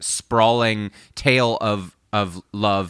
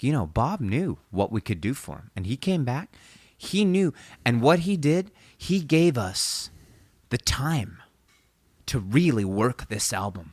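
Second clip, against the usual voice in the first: pumped producer. Retold or imitated. Retelling the producer's interview for a friend, pumped. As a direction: lightly imitate a fired-up record man, pitch swinging up. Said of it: "they're just so pumped on Dylan".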